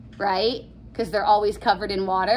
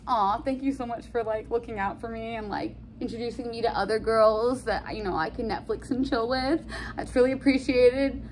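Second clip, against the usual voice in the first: softer, sweet gratitude; grateful thanks; 5 dB quieter than usual. Retold or imitated. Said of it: "Romeo would be like".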